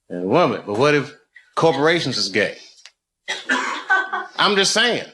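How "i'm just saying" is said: laughing. Real, not acted. Comedian laughing through joke riff.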